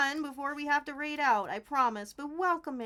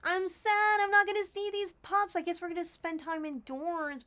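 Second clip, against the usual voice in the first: mock sad; 7 semitones higher, 6 dB louder than usual. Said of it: "I'm actually kinda sad".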